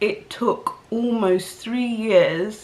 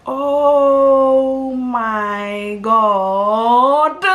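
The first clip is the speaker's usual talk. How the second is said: shocked realisation; 5 semitones higher, 5 dB louder, much slower than usual. Retold or imitated. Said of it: "And it was like".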